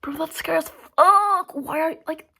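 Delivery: high, intense whisper; scared whisper. Real, not acted. Telling the viewers the kids' movie scares her, a tense whisper. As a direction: hiss it like it's genuinely spooky.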